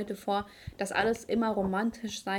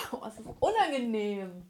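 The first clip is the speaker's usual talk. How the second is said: verschluckt. Real, not acted. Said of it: "Ich hab mich verschluckt".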